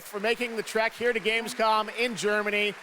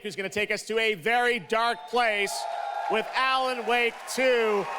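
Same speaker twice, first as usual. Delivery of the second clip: hype announcer; 4 semitones higher than usual. Real, not acted. Host hypes the next game reveal.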